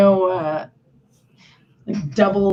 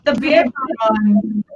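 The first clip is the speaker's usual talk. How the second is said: English accent; much slower than usual. Shown as a demonstration. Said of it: "with an English accent".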